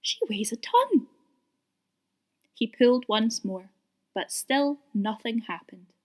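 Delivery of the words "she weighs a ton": whispered aside; muttered whisper. A narrator's reading. Percy muttering while straining at the rope, whispered. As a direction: mutter it under your breath. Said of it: "he muttered".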